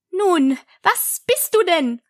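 high, drawn-out question; demanding pigeon. A narrator's reading. Pigeon interrogates Alice, demanding. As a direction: press slowly for an answer.

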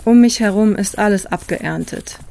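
calm, even read travel narration; documentary voice-over. A narrator's reading. Hiker telling viewers about his walk, calm voice-over. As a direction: read it like a reflective travel film.

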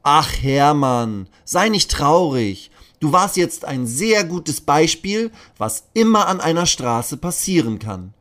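a kind officer cheering up a sad friend; comforting policeman. Acted. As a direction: policeman consoling the sad dino.

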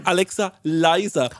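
tired repeat, slowly; slow, drawn-out command. Retold or imitated. Asking Alexa for the fifth time, slow and drawn-out. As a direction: stretch each word slowly. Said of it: "muss ich so fünfmal sagen".

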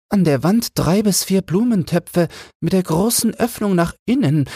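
very high, prim bird voice; a comfortable little bird who won't leave; fussy sparrow wife. A narrator's reading. A nesting sparrow answering the flock, very high and prim. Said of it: "sagte einer von denen".

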